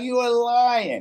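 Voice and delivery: high, slow, stretched-out incredulity; drawn-out mock disbelief. Replaying his shock at who Tisha was, high drawn-out disbelief.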